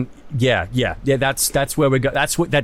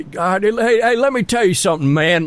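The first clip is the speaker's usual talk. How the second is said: higher, hammed-up drawling survivor; Walking Dead character; 6 semitones higher than usual. Friend drifting into another character, hammed-up and higher. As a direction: slip into another cast member. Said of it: "getting into that Walking Dead characters".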